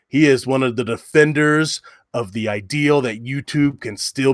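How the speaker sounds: epic trailer narrator; movie trailer voice. Pretend. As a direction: announce it like a blockbuster trailer. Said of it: "I gotta put on my movie trailer guy voice".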